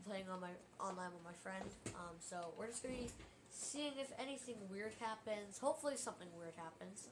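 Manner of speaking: quiet. Real, not acted. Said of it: "if I sound very quiet".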